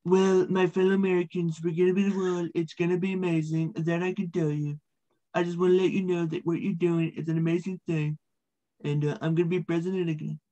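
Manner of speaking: lightly voiced Trump, a hint of the real thing; easy, confident speech-maker tone, only lightly done; Donald Trump impression. Comic doing a Trump voice for the interviewer, lightly voiced. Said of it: "I do a Donald Trump impersonation".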